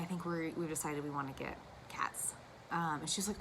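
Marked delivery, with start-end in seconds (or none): 0.0-2.3 a whispered line, as if telling a secret; whispered quote. Retold or imitated. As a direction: hush it to your mother. Retold quote to her mother.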